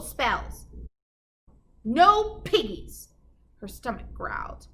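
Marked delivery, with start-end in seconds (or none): 1.8-3.1 slow, drawn-out answer; slow farmer no. Acted. Farmer shrugging off the witch, slow. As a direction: drag out the no.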